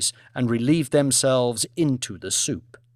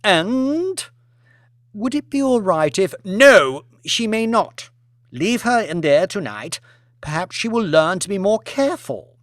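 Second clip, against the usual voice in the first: cold haughty lady; 6 semitones higher, 3 dB louder than usual. Acted. Lady Elizabeth refuses release.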